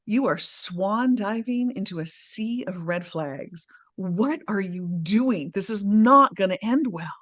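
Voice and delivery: slow, drawn-out warning; emphatic warning. Retold or imitated. Partner warns her of red flags, slow emphatic warning. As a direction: stretch each key word in warning.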